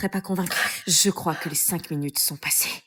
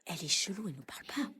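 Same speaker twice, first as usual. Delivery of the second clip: whispering while hiding; 13 dB quieter than usual. Acted. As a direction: mutter behind her back. Messes basses entre ados. (messes basses en se cachant)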